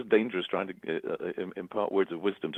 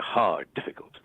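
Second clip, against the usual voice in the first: whispered; slower than usual. Real, not acted. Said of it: "whispered emphasis".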